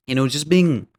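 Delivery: burp while talking; words through a burp. Real, not acted. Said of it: "excuse me, I'm burping".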